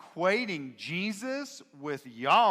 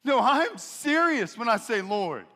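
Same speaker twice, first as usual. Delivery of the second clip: earnest pleading; 7 semitones higher, 8 dB louder than usual. Acted.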